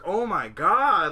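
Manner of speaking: slow, high, loud "oh my god"; shocked gasp. Retold or imitated. Telling a friend how shocking the manga was, stunned loud disbelief. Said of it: "I'm like".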